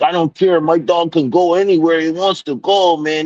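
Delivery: high, dismissive mock voice; mocking the dog owner. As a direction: play the entitled customer up high. Voicing the rude dog owner.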